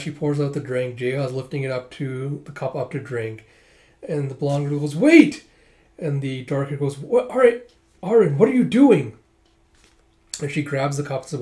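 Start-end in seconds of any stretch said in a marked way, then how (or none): 5.0-5.4 high, loud alarmed cry; sudden acted yell of alarm; urgent shout. Blonde girl stops him drinking. 7.0-9.2 high, loud acted outburst; hammed-up cry of outrage; alarmed scolding. Woman scolds girl for interrupting.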